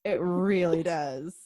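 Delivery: slow hushed whisper of agreement. Real, not acted. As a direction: whisper it like a secret.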